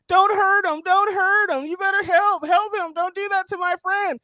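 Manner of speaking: high, frantic pleading over the phone; hammed-up high begging; mock phone plea. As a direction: play the helpless friend begging on the line. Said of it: "He's yelling on the phone".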